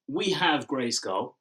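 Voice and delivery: slow, gloating villain voice; dark lord. Retold or imitated. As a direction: drag it out like a smug tyrant. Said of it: "It's like".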